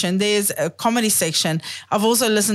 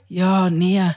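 put-on South African accent. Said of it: "South Africans say".

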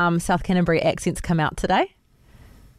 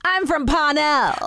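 higher, drawn-out posh Auckland voice; posh Auckland accent; 6 semitones higher, slower than usual. Pretend. Mock posh Auckland accent claims.

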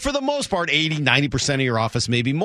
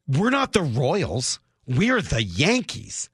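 slow, self-important mock Yankees fan; haughty superiority; slower than usual. Host mocking Yankees fans' belief in their own superiority, haughty. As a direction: voice their entitlement, drawing out each word. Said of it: "your belief in your own superiority".

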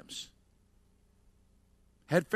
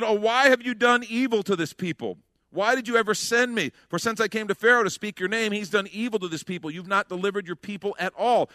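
lightly raised, pleading complaint to God; Moses complaining; 4 semitones higher than usual. Acted. Moses pleading with the Lord, a touch higher. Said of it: "Moses turned to the Lord and said".

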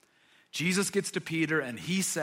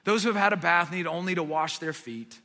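gentle correction; 2 semitones lower than usual. Retold or imitated. Jesus calmly redirecting Peter's excess, gentle. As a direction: gently settle an overexcited friend. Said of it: "gently kind of discourages".

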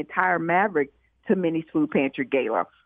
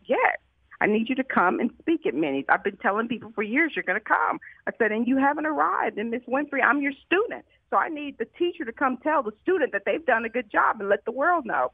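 earnest plea; 6 semitones higher than usual. Retold or imitated. Retold plea to Oprah to visit.

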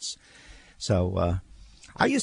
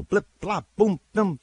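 punchy, high-pitched quick-cut noises; imitated trailer noises; 10 semitones higher than usual. Mocking how trailers are cut, imitated noises. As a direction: pop each sound like a trailer edit. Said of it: "the trailers are like all trailers".

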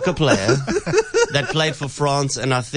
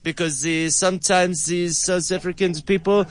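put-on French accent; 3 semitones higher than usual. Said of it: "such a French accent".

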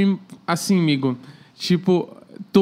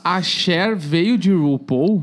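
slow puzzled question; baffled question; much slower than usual. Retold or imitated. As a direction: ask it slowly, genuinely puzzled. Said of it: "eu falei".

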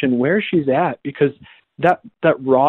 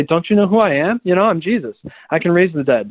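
mock indignant Jesus; 3 semitones higher than usual. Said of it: "Is he gonna say".

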